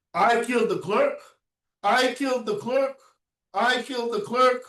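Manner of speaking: the cousin suddenly realizing it is a murder charge, shocked; shocked surprise. Shown as a demonstration. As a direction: blurt it out as if it just dawned on you. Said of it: "out of surprise".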